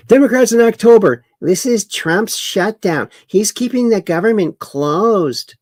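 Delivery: mock indignant Democrat, high, loud and fast; sarcastic impression of a Democrat pundit. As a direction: ham up a Democrat blaming Trump. Mocking Democrats' changing line.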